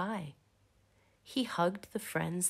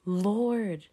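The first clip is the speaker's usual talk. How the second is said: gasped; 3 semitones higher, 5 dB louder than usual. Acted. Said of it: "she gasped".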